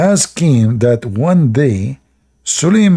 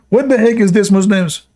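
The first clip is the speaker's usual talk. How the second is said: incredulous; 8 semitones higher than usual. Real, not acted. Incredulous mocking question.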